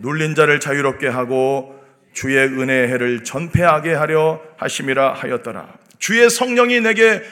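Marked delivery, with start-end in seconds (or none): 0.0-5.7 low, even recitation of a Bible verse; low-pitched liturgical reading; scripture reading. Real, not acted. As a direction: read the verse out solemnly in a lower voice. Reads scripture aloud.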